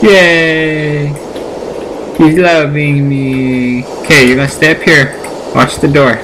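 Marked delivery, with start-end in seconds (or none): 0.0-3.8 delighted. Real, not acted. Dog accepts the meat.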